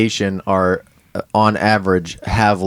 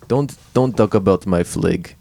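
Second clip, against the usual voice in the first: light Russian accent; Russian accent attempt; 2 semitones lower than usual. Shown as a demonstration. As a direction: try a tentative Russian accent. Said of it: "most recently Russian".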